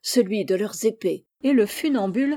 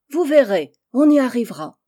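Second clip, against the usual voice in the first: put-on confident old man; 4 semitones higher, 7 dB louder than usual. A narrator's reading. Old man rallying the villagers.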